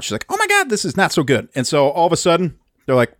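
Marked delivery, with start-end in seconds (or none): 0.3-1.5 higher-pitched, lightly acted panic; mock freak-out. Research assistant reacting to the implosion, mock freak-out. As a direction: imitate someone freaking out. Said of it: "she is just freaking out".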